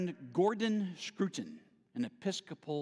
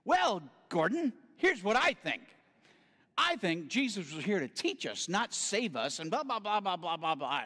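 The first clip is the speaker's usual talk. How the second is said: defiant; 5 semitones higher than usual. Retold or imitated. Lecturing the priest defiantly.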